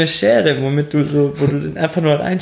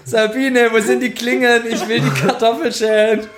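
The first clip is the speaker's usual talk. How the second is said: whiny housewife; 5 semitones higher than usual. Pretend. Acted housewife in mock ad.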